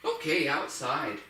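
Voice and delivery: slow "Okay, outside." with outside leaned on; stress on outside. Shown as a demonstration. Trainer cueing the dog at the bells, stressing "outside". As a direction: draw it out and hit "outside". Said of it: "Start emphasizing the word outside".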